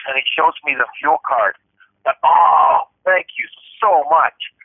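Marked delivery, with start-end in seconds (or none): 2.2-4.5 retold relief. Retold relief at returned fuel card.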